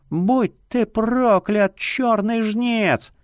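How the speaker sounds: high, slow sobbing scream; crying curse. A narrator's reading. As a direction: curse him through tears. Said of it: "кричит, захлёбываясь слезами".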